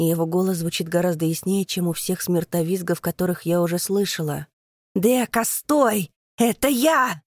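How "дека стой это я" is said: higher, louder, pleading call; desperate shouted plea. Acted. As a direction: beg her to hold back. Creature pleads to stop attack.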